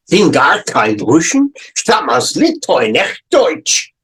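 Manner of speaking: German words with a light German accent; lightly German accent. Shown as a demonstration. Teacher voicing the German-speaking stranger, light German accent. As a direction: read the German as the overheard speaker. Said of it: "some German-speaking person at the next table".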